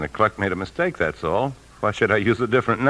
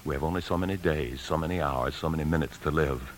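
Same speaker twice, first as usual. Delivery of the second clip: intense low plea; 4 semitones lower, 8 dB quieter than usual. Acted. Husband justifies theft to wife.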